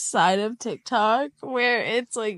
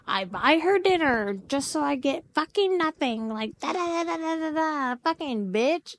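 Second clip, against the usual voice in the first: mock bitter rant; 7 semitones higher than usual. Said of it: "And he's like".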